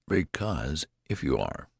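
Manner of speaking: put-on mildly querulous old man. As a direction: start a complaint with a touch of peevishness. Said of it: "went on the old man querulously".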